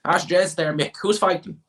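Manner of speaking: high, loud Midlands Irish voice; hammed-up country Irishman; mocking rural Irish accent. One local asks his mate Mick, high loud Irish accent. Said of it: "That's what they're like".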